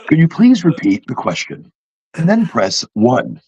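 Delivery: lightly mimicked automated phone prompt; a hint of robotic phone menu; measured mock recording; computer bot. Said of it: "those computer bots".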